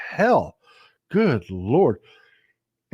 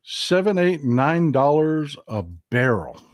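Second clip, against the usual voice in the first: incredulous echo; slower than usual. Retold or imitated. Echoes the clip in disbelief.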